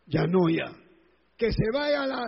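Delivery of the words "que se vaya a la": higher mock curse, left unfinished; imitated swearing. Preacher mimics forbidden insults to congregation, mock cursing. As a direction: begin the insult and break off. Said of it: "No te debe salir".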